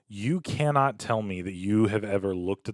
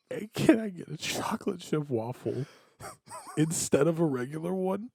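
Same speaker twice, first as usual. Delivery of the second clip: soft, slightly raised, tentative ask; mock meek request; 5 semitones higher, 8 dB quieter than usual. Drunk customer asking waitress for a treat, softly meek. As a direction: ask quietly for a special favour.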